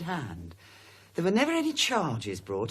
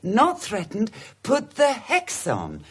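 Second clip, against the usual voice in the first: excited realization; 2 semitones higher, 7 dB louder, much slower than usual. Acted. Excited sudden recollection.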